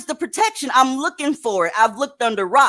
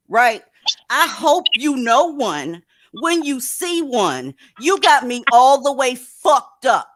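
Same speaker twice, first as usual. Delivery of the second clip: louder, back to full voice after the fake apology; loud gloating reveal; 3 semitones higher, 4 dB louder than usual. Real, not acted. Host tells her viewers the apology was a joke, loud and mocking. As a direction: drop the act and crow it.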